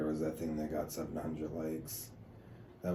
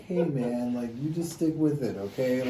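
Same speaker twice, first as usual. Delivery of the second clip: higher, louder imitation of supportive strangers; pep-talk quote in a raised voice; mock encouragement; 6 semitones higher, 5 dB louder than usual. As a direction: cheer him on, raised and playful. Voicing strangers' encouraging replies.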